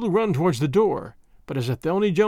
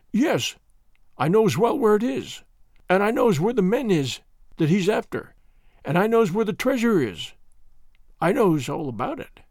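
put-on old sailor bragging; 3 semitones higher than usual. Old man boasts he knows.

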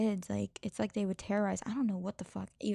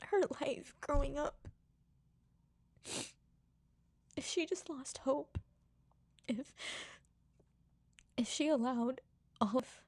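higher, choked with tears; tearful; 4 semitones higher than usual. Real, not acted. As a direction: fight through the tears. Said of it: "I'm trying so hard".

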